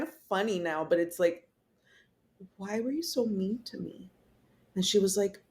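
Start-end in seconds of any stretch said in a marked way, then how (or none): 2.6-4.1 softer, small wounded question; retold tearful plea. Patient retelling her plea to the nurse, softly tearful. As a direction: lightly imitate a hurt, tearful plea. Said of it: "I start crying".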